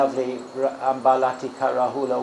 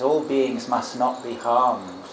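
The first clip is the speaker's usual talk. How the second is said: slow recitation; much slower than usual. Shown as a demonstration. Recites a reflection phrase.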